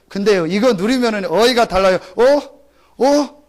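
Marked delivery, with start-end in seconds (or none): 2.1-3.4 higher, bright surprised "어? 어?"; pleasant surprise. Retold or imitated. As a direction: sound delighted to notice something. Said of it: "같은 어인데도 다르다니까요". (기분 좋게 놀라는 "어? 어?")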